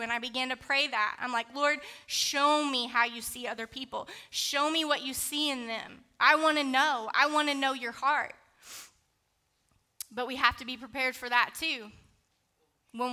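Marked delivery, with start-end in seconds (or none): 1.5-8.3 fervent prayer. Retold or imitated. Retold prayer, building.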